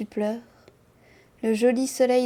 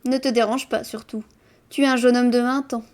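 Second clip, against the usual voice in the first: recited retort, louder on the last phrase; mild exclamation; 5 dB louder, faster than usual. Acted. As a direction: exclaim it lightly within the poem, then quicken. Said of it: "Je m'exclame".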